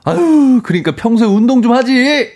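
high, scornful jab; scolding nag. Retold or imitated. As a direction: scold the tired wife. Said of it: "구박하더니".

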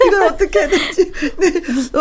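laughing through tears; tearful laughter, choking up; laughing into sobs. Real, not acted. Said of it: "웃으면서 눈물은 나고".

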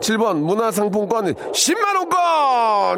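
big slow shout of the prize; booming prize announcer. Real, not acted. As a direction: announce the prize like a game show host. Host announces caller's prize.

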